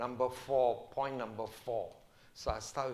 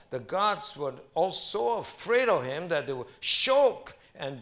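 raised scripture reading; 5 semitones higher, 7 dB louder than usual. Acted.

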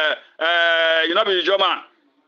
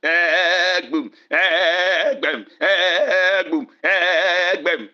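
mock stammer; 2 semitones lower, slower than usual. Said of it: "That is why you dey talk slowly".

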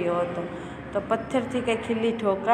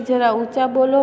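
raised, loud plea to speak up; mock shout of જરા ઊંચા બોલો; louder request; 6 dB louder than usual. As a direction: call out so they'll speak louder. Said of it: "Munno કહે છે".

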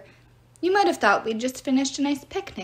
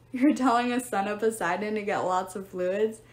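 amused disbelief at "get lots of fluids"; incredulous. Acted. Percy mocks Meg's advice.

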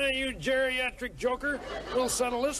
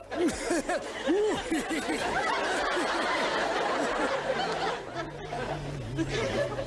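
long rising giggle; tickled cackle; 6 semitones higher than usual. Shown as a demonstration. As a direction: laugh as if tickled. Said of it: "I'll tickle myself now".

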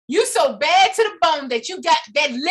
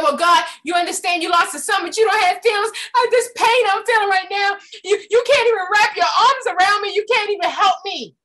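tearful complaint; 5 semitones higher than usual. Retold or imitated. Mother grieving her son to God, tearful. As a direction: plead through tears. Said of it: "And then I said".

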